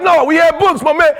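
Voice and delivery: protesting to his wife; heated protest. Retold or imitated. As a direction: snap back at the wife. He argues back at wife.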